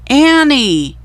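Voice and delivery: high, loud shout of her name. A narrator's reading. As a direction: yell for her, worried. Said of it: "he called".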